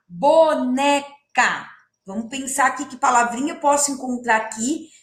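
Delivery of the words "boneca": boneca drawn out syllable by syllable; teacher modelling the word slowly. Shown as a demonstration. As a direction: stretch boneca for the class. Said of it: "rima com boneca".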